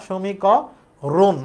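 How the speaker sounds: সমীকরণ said slowly, syllable by syllable; slow careful pronunciation. Shown as a demonstration. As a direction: draw out সমীকরণ like a model word. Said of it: "আমরা যেমনে বলি সেমনে উচ্চারণ". (ধীরে স্পষ্ট উচ্চারণ)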